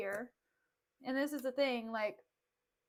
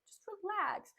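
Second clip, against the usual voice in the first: soft, coaxing repeated pleas; mock gentle; 5 semitones higher, 6 dB quieter than usual. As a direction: imitate soothing a bride, hushed. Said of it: "turn back to her and be like".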